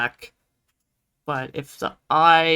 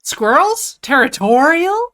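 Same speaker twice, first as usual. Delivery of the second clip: mock surprise; 10 semitones higher, 7 dB louder than usual. Mock disbelief at squirrels.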